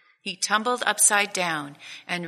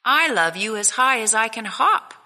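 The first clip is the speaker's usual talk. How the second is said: little hare laughing; 4 semitones higher, 6 dB louder than usual. Acted. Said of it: "laughed Little Nut Brown Hare".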